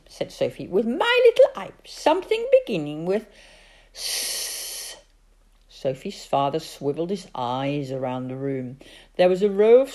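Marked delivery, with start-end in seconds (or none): 0.7-5.0 put-on high, loud child's voice; little girl voice. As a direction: ask like a worried small girl.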